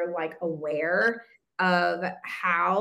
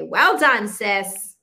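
bright, louder burst of praise; warm praise; 7 dB louder, much slower than usual. Real, not acted. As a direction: cheer her on like a proud friend. Host praising the guest.

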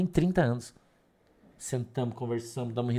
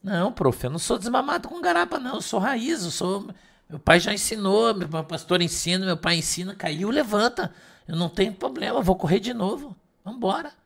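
put-on boy voice; 5 semitones higher than usual. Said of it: "A professora falou".

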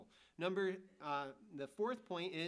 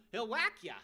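punchy threat; 6 semitones higher, 8 dB louder than usual. Retold or imitated. Punchline about the Pharaoh.

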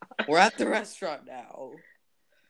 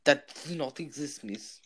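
put-on Russian waiter accent. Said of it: "not being racist with this accent".

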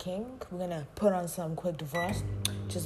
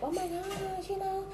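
swooning admirer; 11 semitones higher, 6 dB quieter than usual. Retold or imitated. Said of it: "and then you're like".

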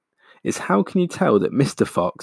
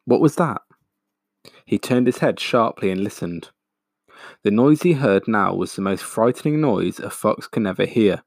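expressive read-aloud storytelling; story narration. A narrator's reading. Teacher reading a chapter to her class, lively storytelling. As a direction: bring the story to life for listeners.

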